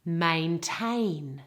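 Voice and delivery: "Maintain" drawn out, weight on TAIN; careful teacher's "Maintain", stressed at the end; stress on second syllable. Shown as a demonstration. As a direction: model "Maintain" with two full A vowels, the second stressed. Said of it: "the emphasis and stress is all on the second".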